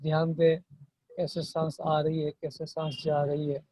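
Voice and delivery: soft meditation guide with long pauses; guided meditation. Real, not acted. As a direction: gently guide them into watching the breath. Guides breath meditation softly. (धीमी आवाज़ में ध्यान का मार्गदर्शन)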